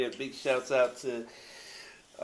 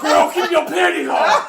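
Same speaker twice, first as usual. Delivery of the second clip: laughing; 17 dB louder than usual. Acted. DJ shoutout, laughing hard.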